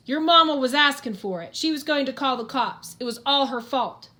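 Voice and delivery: injured man snapping back in a groan; groaning retort. Acted. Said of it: "The Undertaker groans and then goes".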